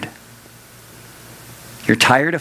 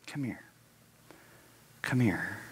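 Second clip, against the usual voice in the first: much softer, hushed come here; gentle call; 5 semitones lower, 11 dB quieter than usual. Acted. Jesus softly calls the weary listener to come close. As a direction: draw them in gently.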